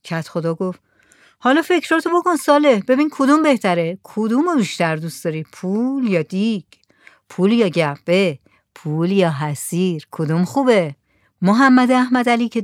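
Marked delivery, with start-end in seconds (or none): 1.4-10.9 coaxing village head. Acted.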